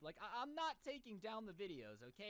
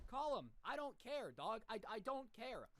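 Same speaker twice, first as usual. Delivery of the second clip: loud, high, daring; retold louder defiant taunt at the husband; defiant dare; 4 semitones higher, 3 dB louder than usual. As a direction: taunt him to go ahead. Daring husband to call mom.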